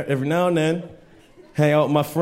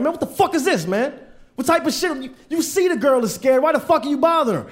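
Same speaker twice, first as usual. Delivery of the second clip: mock angry yell; 9 semitones higher than usual. Angry retold yell at harasser.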